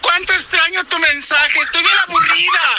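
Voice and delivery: high, whiny put-on plea with a laugh; hammed-up bored sweetheart; mock lovesick woman. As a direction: pine for him in a squeaky falsetto.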